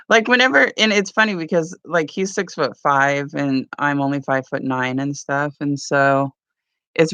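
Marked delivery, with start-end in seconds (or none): none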